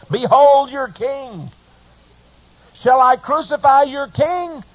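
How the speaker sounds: high, slow, proclaiming voice of a Roman governor; Pilate addressing the crowd. Acted. Pilate presents Jesus to the crowd, high and slow. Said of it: "Pilate said".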